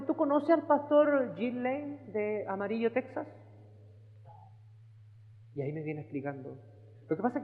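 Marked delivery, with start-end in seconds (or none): 0.0-3.3 sister Carol asking. Retold or imitated. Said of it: "me dijo".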